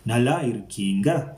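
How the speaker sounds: "Nalla irukkinga" asked, pitch lifting on the final word; asking tone. Shown as a demonstration. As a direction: put a questioning lilt on "irukkinga". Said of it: "depends on the tone".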